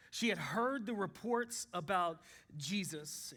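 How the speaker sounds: measured, solemn Bible reading; slightly slowed pulpit reading; scripture reading. Real, not acted. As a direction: read the passage aloud with deliberate phrasing. Reads scripture aloud.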